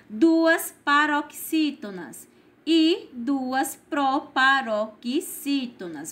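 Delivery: slow, measured delivery of each term; slow dictation. Shown as a demonstration. Teacher repeating the task for pupils, slow dictation. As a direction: spell out the long terms slowly, piece by piece.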